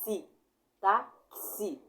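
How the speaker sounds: "xi" repeated crisply as a model; sound demo. Shown as a demonstration. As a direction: say "xi" clearly for the class. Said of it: "ó, tá". ("xi" repetido como modelo)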